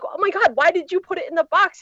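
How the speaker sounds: high-pitched incredulous outburst; retold disbelief. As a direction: squeal out the disbelief at a friend's blunder. Retold shock at friend's mistake.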